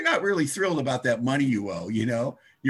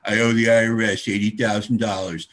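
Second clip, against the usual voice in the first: flat confession; 4 semitones lower, 5 dB louder than usual. Retold or imitated. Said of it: "I go".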